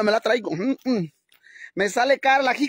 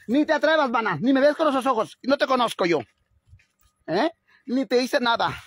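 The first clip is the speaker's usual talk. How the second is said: higher, indignant warning to the cow; telling off a cow; 4 semitones higher than usual. Real, not acted. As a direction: back off, don't you dare. Confronting a staring cow.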